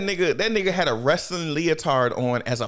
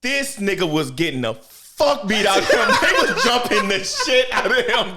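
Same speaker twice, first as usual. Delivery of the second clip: usual speaking voice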